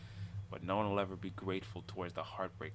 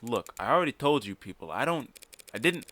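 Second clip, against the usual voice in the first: Carlos voice; 5 semitones higher, 5 dB louder than usual. Acted. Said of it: "I'm trying to think of a Hispanic accent".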